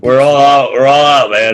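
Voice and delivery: laughing through the words. Real, not acted. Joking about running out of shots.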